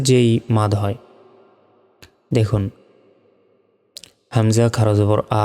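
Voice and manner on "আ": "আ" held long and steady; one-alif stretch. Shown as a demonstration. Teacher demonstrating madd badal, "আ" drawn out evenly. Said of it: "এই যে এক আলিফ টেনে পড়লাম".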